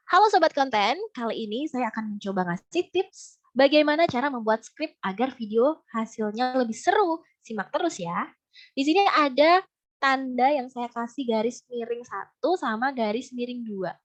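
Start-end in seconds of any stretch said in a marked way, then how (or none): 0.1-8.3 content creator's opening hook, lively start easing off; intonation demo for a hook. Shown as a demonstration. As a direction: open the video with a punchy greeting, then settle. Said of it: "saya kasih contoh dulu ya".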